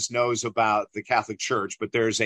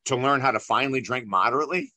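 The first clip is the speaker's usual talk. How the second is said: tentative guess; faster than usual. Retold or imitated. Guessing another answer, tentative.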